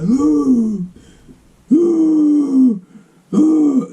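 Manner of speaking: high sustained mock-angry "ooh"; mock mad howl. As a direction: hoot high and long, imitating someone fuming. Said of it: "He was so mad".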